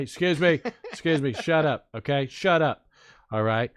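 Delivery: lightly voiced Trump, repeating "shut up" and "okay?"; mild mock Trump rally voice; Trump impersonation. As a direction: keep the Trump riff going with a hint of bluster. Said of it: "I can't do this impersonation".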